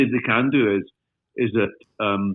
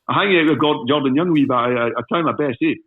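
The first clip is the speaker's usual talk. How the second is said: Fife accent attempt; 4 semitones higher, 3 dB louder than usual. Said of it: "I said".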